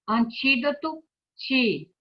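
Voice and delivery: "antídoto", then "ti" alone; single out the second syllable of "antídoto" as "ti"; stressed syllable shown. Shown as a demonstration. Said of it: "a sílaba mais forte é".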